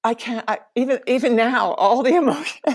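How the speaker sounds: fighting back tears as it comes back; real emotion cracking through; overcome with emotion. Real, not acted. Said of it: "all the emotions are coming back up".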